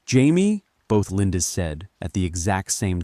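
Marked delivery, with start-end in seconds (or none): 0.0-0.6 high, loud frightened call; fearful. A narrator's reading. Both Lindas call at once, fearful. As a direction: cry the name out in fear. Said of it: "fear filling their voices".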